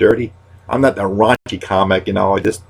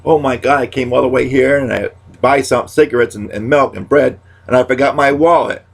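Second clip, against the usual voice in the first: whiny complainer; 4 semitones higher than usual. Retold or imitated. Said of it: "or, um".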